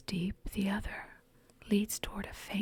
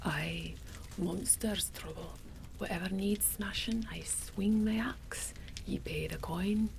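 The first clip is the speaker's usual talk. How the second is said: whispered Scottish brute, a touch of Shrek; gruff Scottish warrior, lightly voiced; Scottish accent. Scottish fighter boasting to the innkeeper, whispered Scottish accent. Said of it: "Drogon is Scottish, although he might sound a bit like Shrek".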